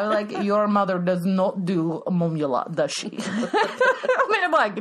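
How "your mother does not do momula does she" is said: lightly put-on Russian vampire mom; hint of a Russian Dracula mother's accent; mock-formal Russian-accented momula; Dracula's mom. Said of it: "Dracula's mom, but she's a little Russian".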